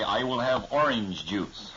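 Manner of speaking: hard rolled R's, Midwestern; Midwestern twang. Shown as a demonstration. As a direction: hit every R hard. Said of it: "hit your R's like that".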